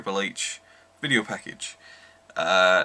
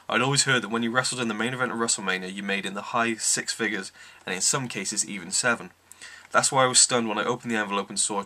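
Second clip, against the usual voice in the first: reading aloud. Acted. Reads from the book Undisputed.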